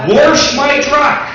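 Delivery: Wash said slow and high, as if spelled Warsh; Brantford pronunciation. Retold or imitated. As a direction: stretch out Wash my truck like a local. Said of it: "There is no T".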